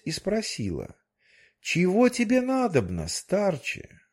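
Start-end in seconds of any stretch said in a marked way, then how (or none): 1.6-4.0 high fairy-tale fish voice, stately; goldfish voice. Acted. The goldfish asks the old man, high tale voice. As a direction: lift the voice high for the magic fish.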